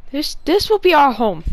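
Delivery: laut und feierlich verkündet: "this will be our home"; grand declaration. Acted. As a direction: proudly proclaim it. Declares new home loudly.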